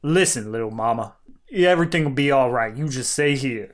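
low, smooth ladies' man; a hint of a smooth talker; smooth-talking hero. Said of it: "that voice".

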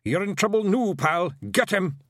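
high, fierce pixie war cry; threaten, then rally the attack; excitable, high-pitched brawler; Rob Anybody. A narrator's reading. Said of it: "Rob Anybody's voice echoed among the trees".

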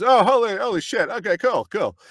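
loud, high startled American; hammed-up flustered American reaction; mimicked American astonishment. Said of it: "He goes".

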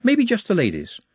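lightly voiced courteous orc; high, precise and courteous; polite orc. Nut's polite suggestion.

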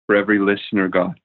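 measured prayer with long pauses between phrases. Real, not acted. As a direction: pray earnestly for the listeners, leaning on key words. Leads closing prayer.

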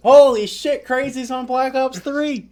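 high, loud YouTube opener; hyped video intro. Retold or imitated. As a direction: shout it like an over-the-top channel intro, stretching the end. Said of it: "I start the video off with".

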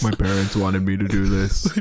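low, resigned confession; upset David Blaine. Acted. David Blaine explaining why he does magic, low and glum. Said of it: "really is upset that he is a magician".

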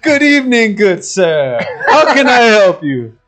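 hammed-up medieval serving maid greeting a guest; imitating the maiden. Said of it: "I forgot what she said".

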